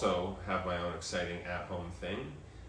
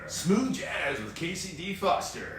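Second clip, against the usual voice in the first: slow late-night radio host; smooth radio DJ; 8 semitones higher, slower than usual. Acted. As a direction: purr it like a smooth jazz DJ. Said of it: "You sound like a D J".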